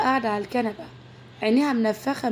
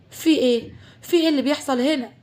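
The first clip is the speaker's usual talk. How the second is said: frightened; 4 semitones higher than usual. Acted. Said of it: "بتطلع من أوضتها مفزوعة".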